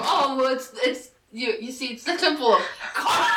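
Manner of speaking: offhand, stammering casual reply. Retold or imitated. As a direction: toss it off casually. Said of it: "Does he say it like that? Very casual".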